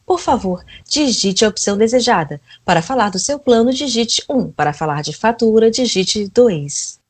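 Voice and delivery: automated phone menu, robotic. Pretend. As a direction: recite like an IVR robot. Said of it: "eu tô tendo que fazer a robô".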